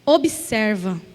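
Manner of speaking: low, hushed divine command; God's voice. Retold or imitated. God speaks to her heart, a low hushed command. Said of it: "o Senhor começou a falar ao meu coração".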